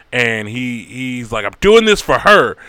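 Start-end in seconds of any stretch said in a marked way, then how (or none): 1.5-2.6 shouted high and loud, desperate. Acted. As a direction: yell it like he's lost everything. Strange insisting, acted quote.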